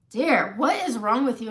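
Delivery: loud mock Southern exasperation; husband scolding in a Southern accent. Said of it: "we do it in a Southern accent".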